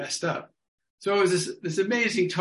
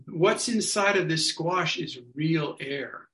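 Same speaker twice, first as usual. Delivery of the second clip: solemn proclamation; slower than usual. Retold or imitated. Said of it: "And I said".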